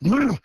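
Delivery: short mock growl thrown back; imitated answering growl. Man answering a Sasquatch toddler's game, imitated growl. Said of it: "and I go".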